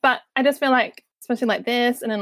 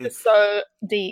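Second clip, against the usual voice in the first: slow, drawn-out deep-voice imitation; mock deep voice; much slower than usual. Co-host showing how hard he is to understand, slow mock-deep. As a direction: drag it out in a comically deep voice. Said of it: "'cause he goes".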